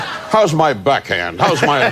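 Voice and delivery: slow, laughing mock question about his tennis; Regis asking his wife. Regis at home asking his wife, slow and laughing. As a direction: tease him as a tennis-obsessed husband. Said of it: "saying to the wife".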